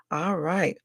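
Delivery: soft unvoiced whisper. Real, not acted. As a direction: breathe it out in a whisper. Whispered aside.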